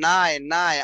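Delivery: "নায়" sounded out with a clear aay glide; emphatic teaching repeat of "নায়"; syllable demonstration. Shown as a demonstration. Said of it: "আয় উচ্চারণ হলে".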